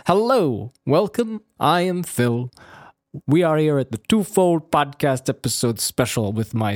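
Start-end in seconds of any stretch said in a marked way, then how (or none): 0.1-4.0 grand host greeting. Acted. Mock grand podcast intro.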